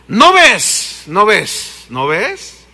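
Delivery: repeat, dropping each time; fading repetition. Real, not acted.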